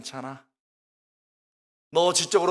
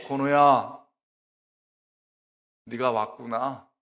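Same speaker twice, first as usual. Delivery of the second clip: voice of the Holy Spirit; 5 semitones lower, slower than usual. Retold or imitated. Preacher voicing the Spirit calling to him, low and hushed. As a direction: speak as a tender God calling his son by name. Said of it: "나중에 보니까 성령의 음성이에요".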